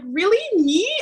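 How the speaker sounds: high, loud retold disbelief; shocked disbelief. Guest retelling being invited on the podcast, shocked disbelief. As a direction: act out being stunned by the invitation. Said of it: "I was so shocked when you asked me".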